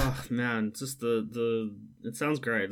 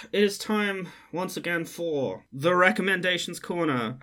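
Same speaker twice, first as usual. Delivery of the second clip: segment announcer; 5 semitones higher than usual. Real, not acted. Host introducing the recommendations corner to listeners, announcer style.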